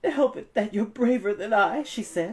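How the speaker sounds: high, loud refusal building; stubborn frightened aunt. A narrator's reading. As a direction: dig in and refuse.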